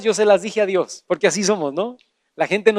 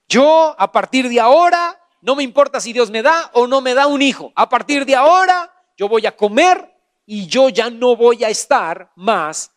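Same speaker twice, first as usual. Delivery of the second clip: resolute declaration; 4 semitones higher, 5 dB louder than usual. Retold or imitated. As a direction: declare a firm decision, stretching key words. Acts out Ana's resolute declaration.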